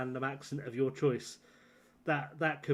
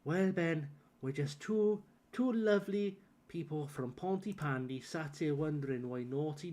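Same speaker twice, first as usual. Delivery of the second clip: put-on Welsh accent. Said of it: "deep in a Welsh accent".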